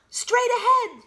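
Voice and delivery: high, loud excited cry; excited shout. Acted. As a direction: cry it out eagerly. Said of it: "cried out excitedly".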